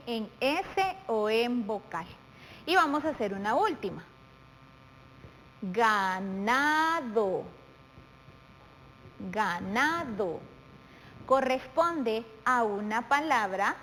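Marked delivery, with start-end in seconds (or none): 5.6-10.4 very slow "Ganado", stretched on NA; stress on penultimate syllable. Shown as a demonstration. Teacher demonstrating a palabra grave, slow stress on NA in "Ganado". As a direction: draw out "Ganado", leaning on the middle NA. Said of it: "lleve el acento en la penúltima sílaba".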